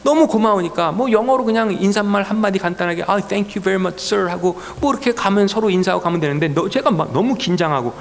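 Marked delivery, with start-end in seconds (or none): 3.0-4.3 slow, polite thanks in English; drawn-out grateful thank you. Retold or imitated. Driver thanking the officer, slow and polite.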